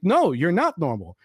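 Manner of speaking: rising, insistent rebuttal; exasperated. Retold or imitated. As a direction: speed up and climb in mock outrage. Exasperated retort to the falsetto singer.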